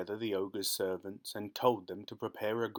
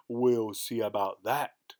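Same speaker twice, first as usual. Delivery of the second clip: slow, louder irritated ogre; annoyed roar; 5 dB louder, slower than usual. Acted. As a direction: snap back, stung by the bet. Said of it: "roared the ogre, getting very annoyed".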